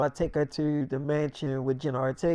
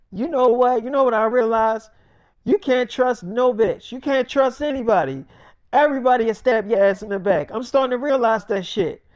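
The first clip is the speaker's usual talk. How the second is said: raised-pitch acted indignation; hurt accusation; 5 semitones higher than usual. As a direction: rail at a friend who betrayed you. Acted quarrel, accusing friend of betrayal.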